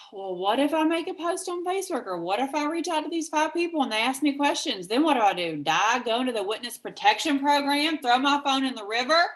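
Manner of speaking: high, loud, mock-panicked worrying; panicky new recruit. New recruit panicking to her upline, hammed-up high anxious rant. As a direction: spiral into exaggerated what-if panic. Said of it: "I hear this all the time".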